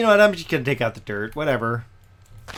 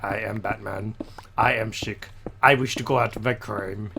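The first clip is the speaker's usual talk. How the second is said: low, softer hammed-up Batman growl; bad Batman impression; 6 semitones lower, 4 dB quieter than usual. Streamer hamming Batman for viewers, low mock growl. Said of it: "bad, bad impression".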